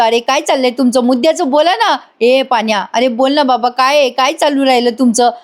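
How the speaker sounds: mildly imitated exasperation; retold irritation. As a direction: press them for an answer, lightly mock-annoyed. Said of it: "यशा चिडून म्हणतो". (हलक्या चिडचिडीची नक्कल)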